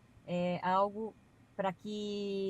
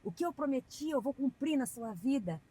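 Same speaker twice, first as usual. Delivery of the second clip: slow, higher, louder prophetic preacher voice; mock pulpit prophecy, drawn out and loud; preacher proclaiming; 6 semitones higher, 3 dB louder, slower than usual. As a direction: thunder it out like a pastor at the pulpit.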